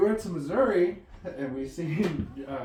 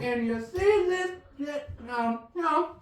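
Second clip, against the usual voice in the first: Mudbone impression; 5 semitones higher than usual. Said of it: "Granddad sounds like Mudbone".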